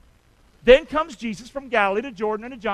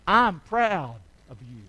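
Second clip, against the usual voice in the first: gentle demo; 4 semitones lower, slower than usual. Shown as a demonstration. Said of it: "Find something that you can say".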